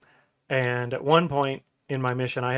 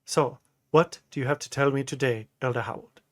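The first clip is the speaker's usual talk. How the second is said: put-on Nigerian accent. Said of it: "in his Nigerian accent".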